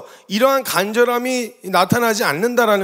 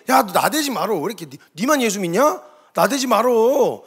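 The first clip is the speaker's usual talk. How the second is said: mock telling-off from bystanders; acted grumbling reprimand; scolding to restrain. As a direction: shush someone who's showing off, stretching the endings. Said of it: "이렇게 말린단 말이죠".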